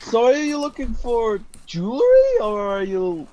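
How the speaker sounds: shopkeeper voice. Acted. GM voicing shopkeeper Garfield.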